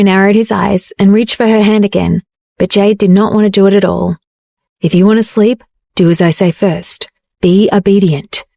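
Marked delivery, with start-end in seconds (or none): 4.8-8.4 gently. Acted. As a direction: coax her gently, take your time. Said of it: "Dario said gently".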